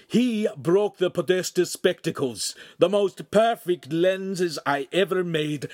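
loud, slow, furious accusation; angry shout. Acted. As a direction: lay out the damage with rising fury. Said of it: "the master shouted".

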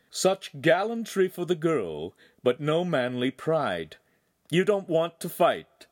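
scornful swordsman goading his rival; mocking villain Feltrino. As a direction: draw out the mockery of a weaker opponent. Feltrino mocks Handsome after laughing.

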